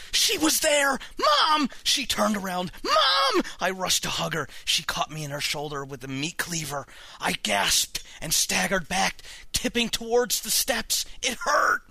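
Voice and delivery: agitated reading with high-pitched cries of "Mom"; frantic horror narration. A narrator's reading. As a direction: tell the attack as it happens, alarmed. Mother attacks narrator with cleaver.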